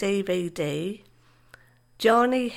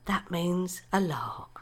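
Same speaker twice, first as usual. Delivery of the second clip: soft whispered ending; 2 semitones lower, 6 dB quieter than usual. Real, not acted. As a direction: breathe it out as a whisper. Tender end of poem.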